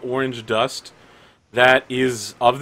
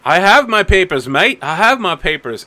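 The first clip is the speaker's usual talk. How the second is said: insisting; 5 semitones higher, 6 dB louder than usual. Acted. NPC insists to security guard.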